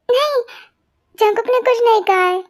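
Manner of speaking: tearful denial. Acted. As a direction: protest with a touch of crying. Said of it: "तो फिर क्यों रो रही हो?". (हल्की रुआँसी आवाज़ में इनकार)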